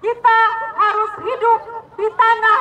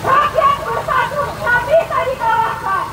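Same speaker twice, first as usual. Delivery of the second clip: shouted rally slogans, pitched up; 2 semitones higher than usual. Real, not acted. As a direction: call out each slogan to the crowd. Rally chant leader calling slogans.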